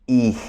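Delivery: "quij" corto con cierre glotal; golpe glotal. Shown as a demonstration. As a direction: suelta "quij" de golpe desde la garganta. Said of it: "sonido explosivo que se hace con la garganta". ("quij" con acento glotal explosivo)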